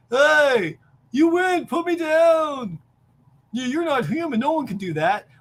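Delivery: high, loud pleading; high frantic pleas from a beaten brute; panicked wrestler. Acted. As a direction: beg to be put down. Wrestler begging to be put down.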